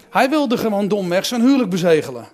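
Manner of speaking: laughing. Real, not acted. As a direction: chuckle at the obvious joke. Jokes about the wedding night. (lachend, luider)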